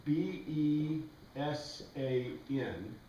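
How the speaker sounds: slow letter-by-letter spelling. Shown as a demonstration. Teacher spelling the Greek word slowly for the students. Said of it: "E, and then B".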